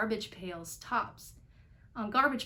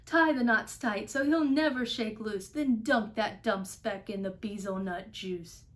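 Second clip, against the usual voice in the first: shouting; 6 dB louder than usual. Acted. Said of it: "they shouted".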